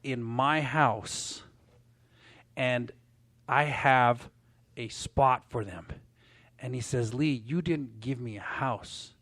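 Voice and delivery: quiet, slow and heavy with feeling; softly retold choked-up words. Client thanking Lee, lightly choked up and slow. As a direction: let the words catch, held low. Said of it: "he's all choked up".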